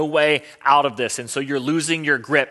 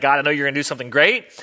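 David hopeful; faster than usual. Retold or imitated. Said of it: "he's like".

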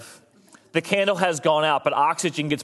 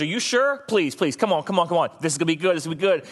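pleading God; 2 semitones higher than usual. Pretend. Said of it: "he goes".

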